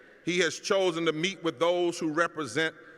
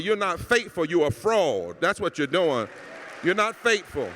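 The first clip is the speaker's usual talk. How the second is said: fiery rebuke; 2 semitones higher, 5 dB louder than usual. Real, not acted. Condemning hypocrites in rising anger.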